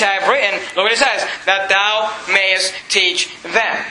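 slow, stately verse reading; scripture reading. Acted. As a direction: draw out the verse word by word. Reads scripture aloud to congregation.

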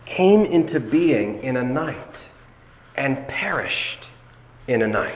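"came into being in a night" drawn out slowly; slow, spaced weight on "came into being" and "perished"; emphatic slow phrasing. Shown as a demonstration. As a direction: dwell on "perished", pausing before "in a night". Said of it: "interpret it in light of the second element".

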